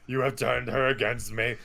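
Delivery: slow, lightly voiced Anakin line; a hint of a tearful young Jedi; imitating Anakin. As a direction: quote the hero with mock gravity. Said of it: "Anakin goes".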